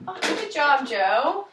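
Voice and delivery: loud happy praise; excited praise. Acted. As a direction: cheer him on. Parent praising child.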